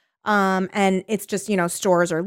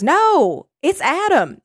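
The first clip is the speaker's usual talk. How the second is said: higher, louder mock-teacher correction; correcting teacher; 7 semitones higher, 4 dB louder, much slower than usual. Teacher in the old man's joke correcting a pupil, emphatic. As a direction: swoop up on the correction, Southern joke-teller style. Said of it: "And the teacher says".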